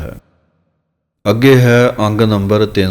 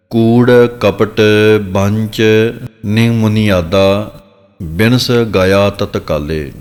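slow recitation; slower than usual. Shown as a demonstration. Teacher recites scripture line slowly.

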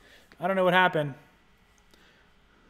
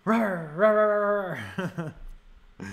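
hammed-up zombie rawrs for the dog; playful rawr; much slower than usual. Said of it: "what the heck I'm doing with him".

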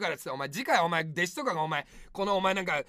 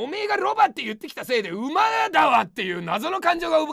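fast, raised complaint; heated rant; 3 semitones higher, 4 dB louder than usual. Real, not acted. Streamer ranting at a viewer who called him a donkey. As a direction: rant at them, fired up.

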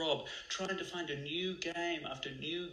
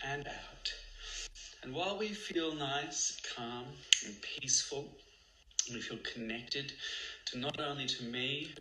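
guided meditation. Acted. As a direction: soothe the listeners into calm.

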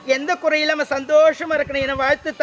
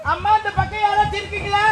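calling out; 5 semitones higher than usual. Acted. Calling out in forest temple.

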